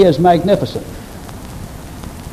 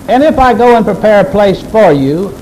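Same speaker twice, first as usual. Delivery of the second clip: "And if I go" raised in pitch, firm through "for you"; raised, insistent quote pressing on "you"; emphatic promise; 5 semitones higher than usual. Shown as a demonstration. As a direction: preach it as a promise, leaning on "for you". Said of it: "it's emphatic".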